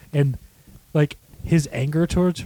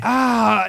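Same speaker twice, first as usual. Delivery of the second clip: higher, drawn-out mock "ah"; imitated cry; 6 semitones higher than usual. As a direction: act out her cry after the hit. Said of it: "she's just like".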